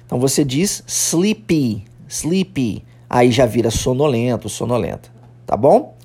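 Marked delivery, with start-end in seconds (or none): 0.9-2.8 "sleepy" with an audible "ee" after the p; emphasis on final Y. Shown as a demonstration. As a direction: sound out the Y ending of "sleepy". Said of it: "tem que dar ênfase ao Y do final".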